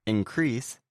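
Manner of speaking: in-CREASE as the verb; second-syllable stress. Shown as a demonstration. Teacher giving an example of a verb, second-syllable stress. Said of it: "stress on the second syllable".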